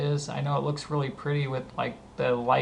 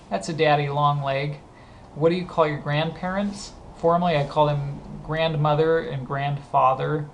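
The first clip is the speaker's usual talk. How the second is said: ordinary delivery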